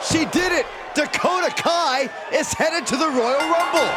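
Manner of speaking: excited call. Acted. Commentator hails the Rumble qualifier, thrilled shout. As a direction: call the win like the crowd just erupted. Commentator calls the winning moment.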